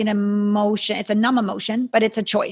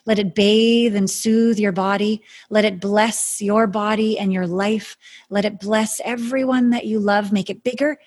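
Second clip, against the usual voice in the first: slow, soothing healer's guidance; airy breathy mystical healer. Acted. Guides a calm meditation.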